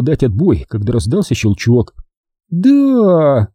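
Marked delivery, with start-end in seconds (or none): 2.5-3.5 higher, yawned woman's voice; sleepy woman. A narrator's reading. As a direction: answer the phone half asleep. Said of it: "сонно зевнул". (сонный женский голос)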